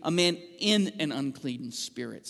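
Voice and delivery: "in" leaned on to show the literal Greek; stress on in. Shown as a demonstration. Pastor showing the congregation the literal Greek, stressing "in". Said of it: "translate the Greek literature, uh, literally".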